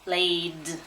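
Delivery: "Laid" with a held A vowel and voiced d; long A sound. Shown as a demonstration. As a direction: stretch the A in "Laid". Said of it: "it sounds like an A".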